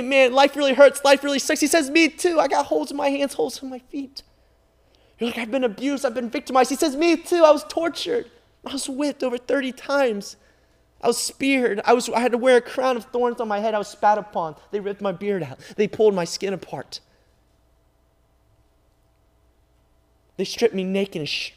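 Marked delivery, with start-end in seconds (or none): 0.0-1.6 loud, high cry of hurt; voicing someone's pain at full force; anguished cry. Voicing a hurting listener. 1.9-21.5 loud, high preaching of the cross; Jesus' reply preached with fervor; preaching at full force. Acted.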